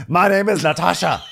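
high, loud mock introduction; hammed-up alias in a high voice; silly disguise persona. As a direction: proclaim a phony identity. Voicing Ralph in silly disguises.

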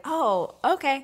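imitated English intrigue, lifting on "okay"; sexy English accent. Woman imitating her intrigued date, sexy English accent. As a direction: play a flirty Englishman catching on. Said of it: "sexy and in an English accent".

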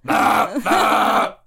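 high vampire bahs; hammed-up spooky vampire; Bela Lugosi voice. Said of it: "Bela Lugosi and spooky voices".

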